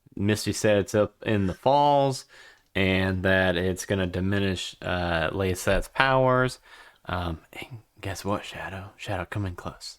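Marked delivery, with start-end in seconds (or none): 7.5-10.0 conspiratorial, hushed, secretive whisper. Calling Shadow in close to share what Misty said: whispering. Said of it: "Why are you whispering?".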